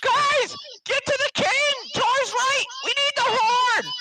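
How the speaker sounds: very high, loud rallying shout. Acted. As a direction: shout urgent orders across the battle. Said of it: "shouting out".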